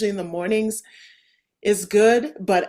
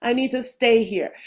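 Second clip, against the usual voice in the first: delighted; 4 semitones higher, 6 dB louder than usual. Retold or imitated. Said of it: "It's just like".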